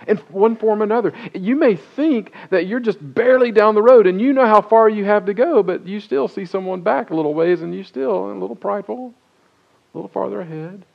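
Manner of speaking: loud, high, fast preaching build that fades at the end; preaching crescendo. Real, not acted. Pastor pressing the point on the congregation, rising preaching. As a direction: drive it home to the church.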